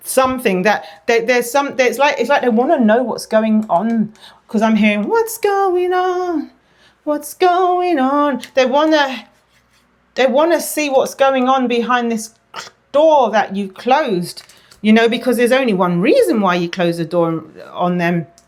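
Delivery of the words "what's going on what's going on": mocking taunting tone, very high and drawn out. Imitating the divine masculine wanting to know what's going on: mocking imitation. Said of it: "Sorry if my tone sounds mocking".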